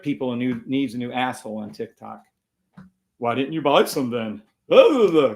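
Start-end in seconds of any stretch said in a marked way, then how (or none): 3.2-5.3 mocking imitation. Streamer mimicking a commenter who nags him, mocking.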